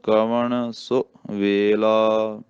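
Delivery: slow recitation with soft consonants in ਵੇਲਾ. Shown as a demonstration. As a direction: draw out ਵੇਲਾ gently, keep ਸੋ short. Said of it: "ਵੇਲਾ ਪੋਲਾ ਹੀ ਬੋਲਣਾ".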